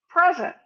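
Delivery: "Present" with the final T dropped. Shown as a demonstration. Coach showing American speech, T dropped. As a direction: say "Present" as prezuh. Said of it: "We don't say the T at all".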